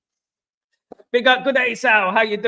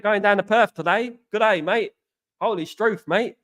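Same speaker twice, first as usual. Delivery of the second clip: put-on Australian accent with stock slang; Aussie accent. Shown as a demonstration. Streamer taking a viewer's request to show his Aussie accent. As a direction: do a jokey Aussie greeting accent. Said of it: "Do an Aussie accent".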